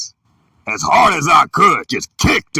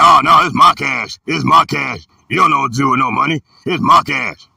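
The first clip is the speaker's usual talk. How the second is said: mock stepfather voice. Stepfather mocking kid over cash.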